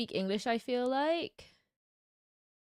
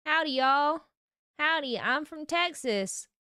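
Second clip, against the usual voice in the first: put-on a weak, half-hearted Texan accent; bad Texan accent; slower than usual. Streamer trying a bad Texan accent for chat. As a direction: put on a hammy Texan drawl, badly. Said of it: "I did my Texan accent before".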